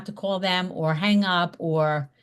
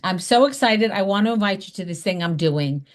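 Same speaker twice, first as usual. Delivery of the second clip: excited invite. Shown as a demonstration. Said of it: "They need to hear that excitement in your voice".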